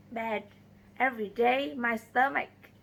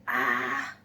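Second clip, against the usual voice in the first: sudden low yelp of pain; a sharp cry as the cramp hits; 11 semitones lower than usual. Acted. Sick traveler at the fort hit by stomach pain, short cry. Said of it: "I cry".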